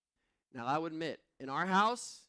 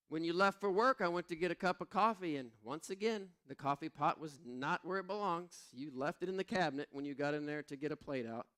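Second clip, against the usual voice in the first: mildly exasperated wife; 2 semitones higher than usual. Retold or imitated. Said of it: "She said".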